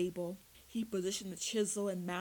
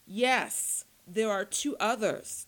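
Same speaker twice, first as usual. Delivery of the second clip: loud anguished scream of a tortured prisoner; screaming in pain; 3 semitones higher, 8 dB louder, slower than usual. A narrator's reading. Vampire prisoner screams the answer at his torturers, full pain scream. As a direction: scream it out as the pain breaks him. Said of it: "Tim screamed".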